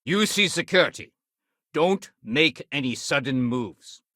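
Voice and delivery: commanding. Acted. Security officer confronting a suspect, commanding. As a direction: order a suspect to freeze.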